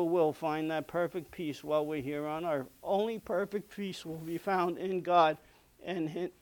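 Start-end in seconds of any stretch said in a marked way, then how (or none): 2.8-6.3 hoarse, fading voice; losing voice. Real, not acted. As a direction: voice giving out, throat tired. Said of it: "'cause I'm losing my voice".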